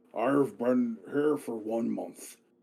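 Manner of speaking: gurgling, waterlogged, drowning-sounding burble. Voicing the fish character raising his hand in the corner; Shushar drowning gurgle voice. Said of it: "sounds almost like he's drowning".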